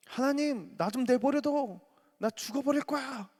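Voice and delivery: high anguished cry to God; a church member crying out to God; despairing believer. Acted. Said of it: "이렇게 말을 한다면".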